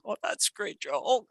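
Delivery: high pretend laugh into the phone; phone joke laugh. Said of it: "the cell phone one".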